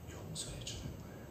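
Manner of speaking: whisper. Real, not acted. Preacher softly repeats point.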